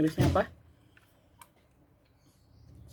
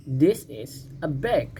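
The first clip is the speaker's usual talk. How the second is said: slow model sentence; slower than usual. Shown as a demonstration.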